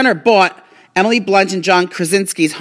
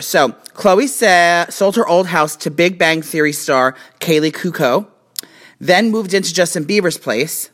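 slurred tipsy speech; words slurring from drinking. Real, not acted. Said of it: "You're slurring".

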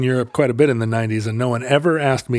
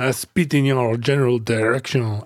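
put-on Monty Python French accent. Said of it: "You're doing the Monty Python guy".

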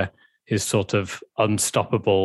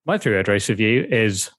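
sexy voice. Pretend. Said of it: "sexy voice for Tom Bellier".

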